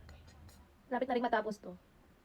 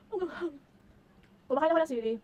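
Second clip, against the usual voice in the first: much higher, squeaky spicy yelp; high squeal; 8 semitones higher, faster than usual. Real, not acted. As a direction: squeal from the heat.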